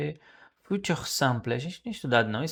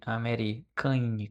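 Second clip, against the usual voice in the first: slow spelling-out; much slower than usual. Shown as a demonstration. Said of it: "faltou o acento mesmo".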